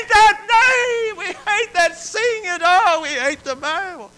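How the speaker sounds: high, loud screeching cry; crying demon voices. Retold or imitated. Inmates' demons to chaplain, high screeching cry. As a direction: shriek it like tormented spirits. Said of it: "voices crying out from the inmates".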